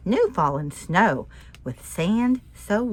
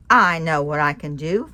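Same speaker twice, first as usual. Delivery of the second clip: louder, firm call; determined shout; 3 semitones lower, 8 dB louder than usual. Acted. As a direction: call it out with resolve. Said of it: "Fred let out a shout".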